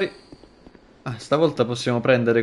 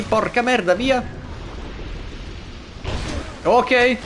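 high frantic yelling; high-pitched gamer panic; panicked yell; 11 semitones higher than usual. Real, not acted. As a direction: shout it in a gaming panic. Panic in boss fight.

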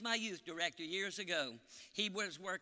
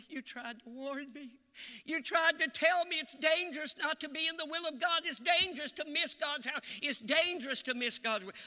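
high, anguished retold outcry; acting out a grieving father's cry; imitated wailing; 8 semitones higher, 5 dB louder than usual. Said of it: "the man was wailing".

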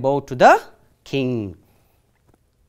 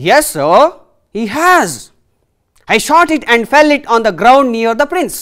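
a touch of loud pleading; mild angry complaint; 4 semitones higher, 4 dB louder than usual. Acted. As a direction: press the complaint, louder. Devdatta complaining to king.

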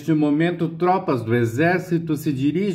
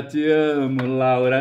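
ordinary talk

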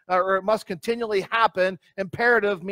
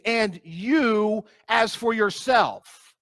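slow, drawn-out "you" set apart from the rest; emphatic YOU; much slower than usual. Shown as a demonstration. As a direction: stretch "you", then spell out "as for yourself" slowly. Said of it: "the thou is emphatic".

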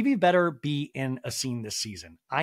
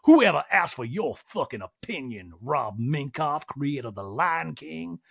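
over-the-top retort. Retold or imitated. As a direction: blow the line up into a mock tirade. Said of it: "I'm not saying that like".

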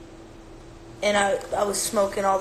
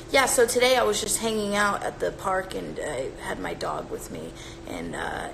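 mock unnatural talking. Mocking a way nobody talks unless insane, lightly exaggerated. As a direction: parody how nobody talks, dropping down at the end. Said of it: "nobody talks like this".

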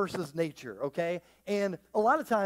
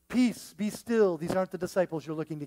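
mock Jedi mind trick. Mocking the sterile King James line as a Jedi trick. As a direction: wave the storm off like a Jedi. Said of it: "which is so sterile".

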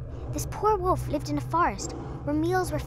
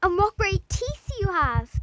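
higher, louder, slow; frightened little girl; 9 semitones higher, 5 dB louder, slower than usual. A narrator's reading. Girl to disguised wolf, scared and higher. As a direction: alarm building in her voice.

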